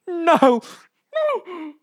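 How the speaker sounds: high, loud screams of no; two piercing no's; shocked scream. Retold or imitated. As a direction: shriek it out in disbelief. Reenacted shocked Big Brother scream.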